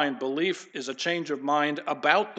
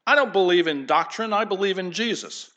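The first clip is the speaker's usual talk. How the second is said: higher, louder mocking "I don't believe in doctrine"; mock pious objector; 4 semitones higher, 4 dB louder than usual. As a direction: mimic a smug churchgoer. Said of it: "you hear people say".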